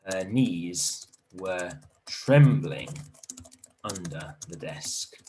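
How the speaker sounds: slow, deliberate storytelling; emphasized slowly. Shown as a demonstration. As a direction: draw out the trembling knees. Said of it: "really emphasize this".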